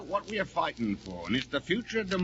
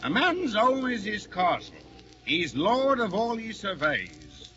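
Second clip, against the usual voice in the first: pompous pronouncement; 2 semitones higher, slower than usual. Acted. Husband lectures wife pompously.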